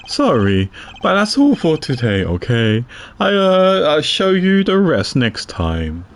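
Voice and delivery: detective character voice. Acted. Reads detective character lines.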